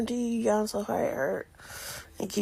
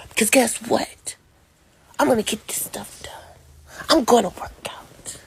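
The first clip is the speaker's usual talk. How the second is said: determined; 3 semitones higher, 4 dB louder than usual. Real, not acted. Defiant vow to herself.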